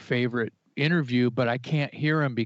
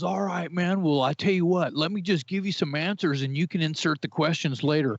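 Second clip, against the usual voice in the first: higher-pitched imitation of an interrupting rock star; 6 semitones higher than usual. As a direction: cut in breezily as the rock star. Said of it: "he interrupts you and goes".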